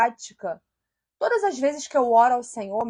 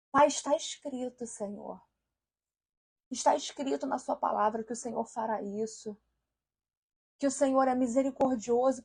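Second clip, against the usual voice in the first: hushed, humble prayer asking forgiveness; a pastor showing how to pray from the Word, soft and humble; sample prayer; 3 dB quieter than usual. Shown as a demonstration. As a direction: quietly plead with God, leaning on Scripture. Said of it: "vai ter uma outra entonação ao Senhor".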